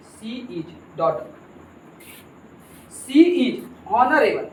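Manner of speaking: slow dictation for the class; slow reading aloud. Shown as a demonstration. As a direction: read the sentences out very slowly. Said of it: "क्या लिखा है". (धीरे-धीरे वाक्य पढ़ना)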